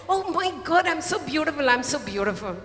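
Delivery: high-pitched delighted gasp of wonder, settling down; joyful. Retold or imitated. The cup seeing itself in the mirror, joyful. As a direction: start high with mock joy, then fall. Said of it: "he jumps with joy and he says".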